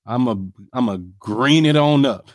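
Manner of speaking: high, slow, casual AAVE swagger; African American accent. Retold or imitated. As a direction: switch into a street-style African American voice. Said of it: "code switch is really just knowing your audience".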